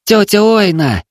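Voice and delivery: high calling shout. Acted. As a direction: call out to the aunt across the yard. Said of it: "закричал он".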